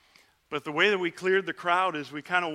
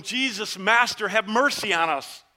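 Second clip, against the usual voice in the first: raised pleading shout, louder on Master; yelling for mercy; 3 semitones higher, 5 dB louder than usual. Retold or imitated. Ten lepers shouting together to Jesus, raised plea. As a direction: call across the crowd for his attention. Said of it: "all of us together were yelling".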